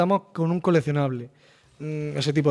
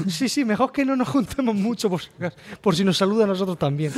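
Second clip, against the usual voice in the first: character aside; 4 semitones higher than usual. Retold or imitated. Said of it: "characters whispering to each other".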